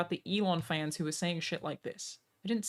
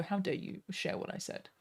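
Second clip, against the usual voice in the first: mock outrage; 7 dB quieter than usual. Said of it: "They don't go".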